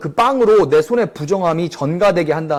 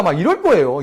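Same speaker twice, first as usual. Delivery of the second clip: ordinary talk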